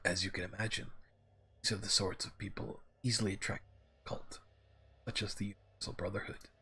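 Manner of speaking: lightly voiced mentor, measured and uneven; wandering character voice. Algernon explains insect spirits to the orc, in a lightly voiced, wandering character voice. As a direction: explain like a learned character, the voice drifting slightly. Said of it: "My voice for him is just going all the way around".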